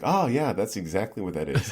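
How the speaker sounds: mock-convinced "oh, yeah"; sarcastic agreement. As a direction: agree too readily, holding back laughter. Humours kids about barbed-wire tattoo.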